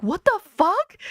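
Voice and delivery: shocked yell. Retold or imitated. At the guy who broke the couch, shocked yell. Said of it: "And I was like".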